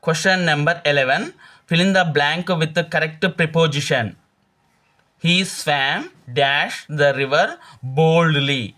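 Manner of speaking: slow, careful reading of the exam question; deliberate classroom dictation pace; slow quiz reading. Acted. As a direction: read each word out slowly like a teacher dictating. Reads the quiz question aloud.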